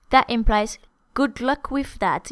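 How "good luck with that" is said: a touch of sarcasm; skeptical. Shown as a demonstration. Teacher voicing doubt about Paris in one day, skeptical. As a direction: wish luck without believing it. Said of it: "You're skeptical".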